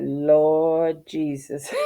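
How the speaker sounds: slow, drawn-out weary plea; exasperated. Retold or imitated. After reading the Google advice, slow weary plea. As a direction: stretch it out in despair. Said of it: "So I'm like".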